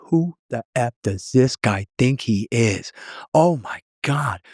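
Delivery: slow, rising, stunned and exasperated; mock the president's outraged disbelief. President fuming after meeting the prime minister, stunned exasperation. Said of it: "he was out of breath, exasperated, just stunned".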